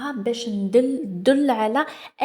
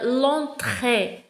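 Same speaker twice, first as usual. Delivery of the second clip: slow reading aloud. Shown as a demonstration. Teacher reading the text aloud to pupils, very slow. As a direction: read each word very slowly. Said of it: "On va commencer".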